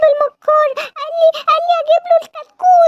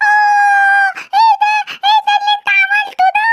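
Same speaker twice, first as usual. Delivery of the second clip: acted shock; 5 semitones higher than usual. Rabbit shocked by what fox did.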